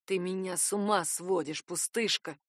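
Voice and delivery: a low, rasping man's voice, lightly done; hoarse strange voice. Acted. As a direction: rasp it out like he's come unhinged. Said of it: "прохрипел он каким-то чужим голосом".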